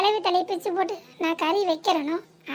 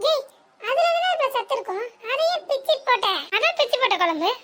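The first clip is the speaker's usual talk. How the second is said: higher-pitched scolding, அதையே pushed hard; shocked scolding; 5 semitones higher than usual. Acted. Mother-in-law scolding the cook, higher and indignant. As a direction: scold her for spoiling the best part. Scolding over the fish head.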